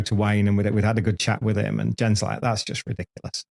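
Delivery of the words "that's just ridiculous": whispered aside, softer. Retold or imitated. Jen whispers to Dave in the paddock, amazed aside. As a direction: breathe it to your partner, amazed.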